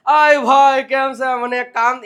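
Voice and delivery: rude, blurted request; impolite demand. Shown as a demonstration. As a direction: call out brusquely, as if interrupting someone. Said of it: "એમ નહીં".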